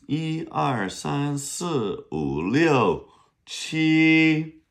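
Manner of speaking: counting one to seven slowly; counting in Mandarin, drawn out. Shown as a demonstration. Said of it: "How do you say seven?".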